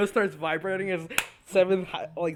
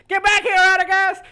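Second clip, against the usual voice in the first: loud high chasing shout; angry yell; 12 semitones higher, 12 dB louder than usual. Acted. Seventh chasing Radagast through streets, angry yell. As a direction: yell after him furiously. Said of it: "she goes".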